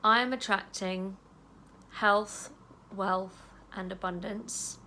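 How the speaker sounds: calm self-talk while tapping; gentle affirmation. Shown as a demonstration. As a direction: say it tenderly to yourself. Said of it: "I want you to say".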